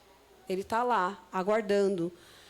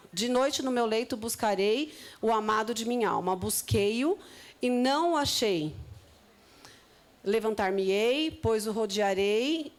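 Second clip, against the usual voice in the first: scripture reading. Acted. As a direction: read it unhurried, like a sacred text. Reads the Song of Songs aloud. (leitura bíblica lenta e solene)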